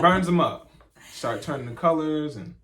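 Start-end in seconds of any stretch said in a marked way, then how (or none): 0.0-0.7 loud emphatic. Real, not acted.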